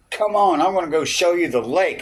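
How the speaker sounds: high, eager retold invitation; eager urging. Biker buddy inviting him to the lake, high eager urging.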